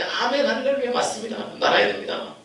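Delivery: imitating a fervent crowd; excited congregation. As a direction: cry out like fervent churchgoers. Congregation responding.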